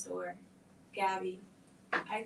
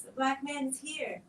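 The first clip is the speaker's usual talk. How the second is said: high, loud panicked scream; children screaming; 6 semitones higher, 3 dB louder than usual. Acted. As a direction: scream it like terrified kids. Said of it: "screaming at the top of their lungs".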